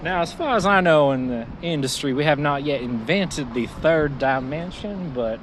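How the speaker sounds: a hint of a folksy small-town lawyer; Southern lawyer voice. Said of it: "Southern lawyer voice".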